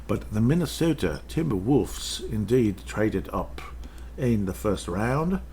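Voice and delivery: slow, put-on announcer-like read; odd put-on voice. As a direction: drift into a strange slow voice for a moment. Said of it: "Sorry, I don't know why I'm doing that".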